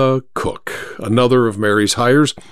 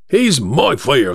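slow, drawn-out protest in a London cabbie's voice; slower than usual. Acted. First driver claims his fare, protesting. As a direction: protest as a put-out cab driver.

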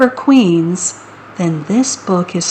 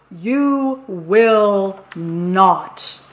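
slow, firm big goat; much slower than usual. Acted. Big goat answers slowly.

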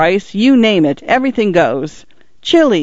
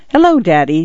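shy. Acted. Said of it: "said Cynthia very shyly".

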